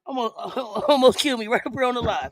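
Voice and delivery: words interrupted by a laugh; laughing helplessly. Real, not acted. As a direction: break off to laugh, then resume. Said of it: "I almost died on live".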